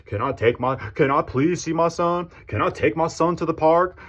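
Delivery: asking the mother for his son, mock pleading; begging. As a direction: whine it up high like a humbled kid asking permission. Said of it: "come down to a bitch level and ask".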